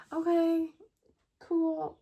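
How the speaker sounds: a hint of eager retold agreement; chirpy okay. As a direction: chirp it like you're thrilled.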